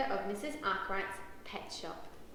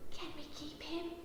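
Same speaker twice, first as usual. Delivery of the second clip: soft, higher-pitched near whisper; 4 semitones higher, 8 dB quieter than usual. A narrator's reading. Daisy asks Mum to keep the puppy, whispering. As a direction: ask it softly, like a timid secret. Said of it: "whispers Daisy".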